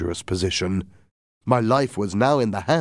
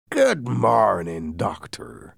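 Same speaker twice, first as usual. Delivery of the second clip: slow, drawn-out pirate greeting; cheerful greeting; much slower than usual. Acted. Silver greeting the doctor, cheerful and slow. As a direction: cheerily stretch the words out. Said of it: "in a cheerful voice".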